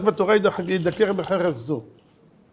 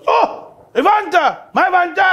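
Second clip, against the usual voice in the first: high, loud eager question; eager excitement; 12 semitones higher, 4 dB louder than usual. Retold or imitated. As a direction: pounce on his agreement. Philosopher eager.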